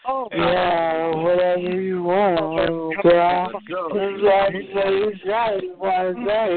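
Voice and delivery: slow, lightly mocking monotone; mocking monotone imitation. She mocks the caller's droning voice in slow monotone. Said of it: "I'm gonna imitate your voice".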